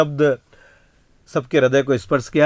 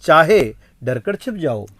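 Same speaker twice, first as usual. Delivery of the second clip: poem recital; 4 semitones higher than usual. Acted. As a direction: declaim the verse. (कविता पाठ का अंदाज़)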